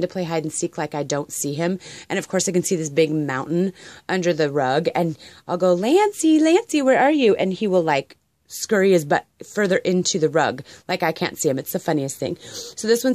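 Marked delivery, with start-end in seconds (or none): 5.7-7.4 high sing-song call to a hiding cat. Real, not acted. Owner calling her hiding cat in a high sing-song voice. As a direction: call out playfully for the cat, higher.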